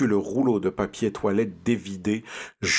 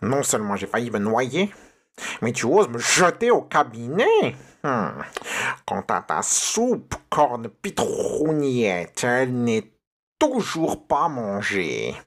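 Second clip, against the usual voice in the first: angry witch; 2 semitones higher than usual. Acted. Witch scolds Pierre.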